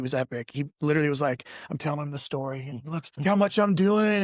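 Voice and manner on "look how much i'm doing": high, whiny, hammed-up complaint; retelling his whining to the counselor; mock self-pity. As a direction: play up your own martyrdom. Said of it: "And I'm crying".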